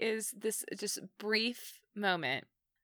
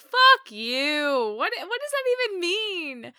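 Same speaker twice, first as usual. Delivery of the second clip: angry; 11 semitones higher, 7 dB louder than usual. Retold or imitated. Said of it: "I'm like".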